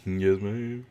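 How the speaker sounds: mimicked Southern droid accent; Southern drawl. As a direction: echo the droid's Southern twang playfully. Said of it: "I love that guy's accent".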